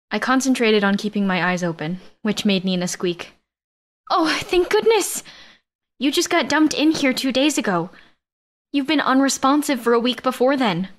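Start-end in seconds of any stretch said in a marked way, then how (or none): 4.1-10.9 high, excited relief, slowing on the first words; relieved cry. Acted. Nina crying out in relief at Gwen waking. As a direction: burst out in relief. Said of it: "Nina cried".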